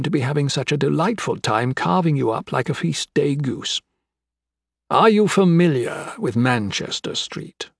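deliberate, lilting menace; menacing crime boss. Acted. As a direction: lead into a threatening tale with relish.

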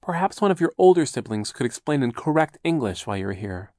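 a hint of a prim, high aunt; lightly voiced fussy aunt. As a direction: scold gently like a fussy aunt.

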